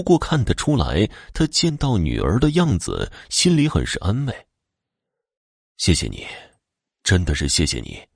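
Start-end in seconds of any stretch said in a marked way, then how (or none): 5.8-8.0 sincere thanks. Acted. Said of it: "真心地感谢着朱云".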